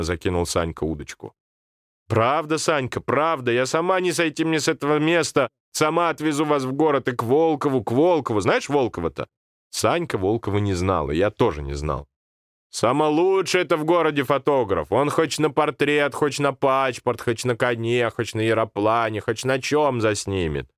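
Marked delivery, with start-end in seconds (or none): 2.1-9.3 put-on higher old woman's voice, eager; grandmother promising. Grandmother promises the boys a photographer, higher. 12.7-20.7 grandmother boasting. Acted. Grandmother praising the photographer.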